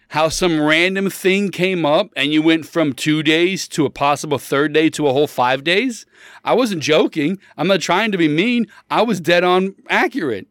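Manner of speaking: retold incredulous argument; indignant. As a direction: insist you were right all along. Argues he was right, worked up.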